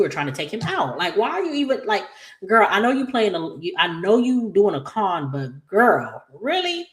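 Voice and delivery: put-on high-pitched, fast sassy girl-talk scolding. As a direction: read her for the con, sassy and rising. Scolding Haley on screen.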